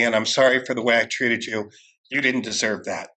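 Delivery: low, sincere apology; retold heartfelt amends. Apologizing to the man he wronged.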